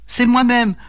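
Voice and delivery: high-pitched mild mock wail; lightly acted tearful lament from a fairy; pleurs joués. A narrator's reading. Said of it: "pleura-t-elle". (plainte aiguë, légèrement pleurée)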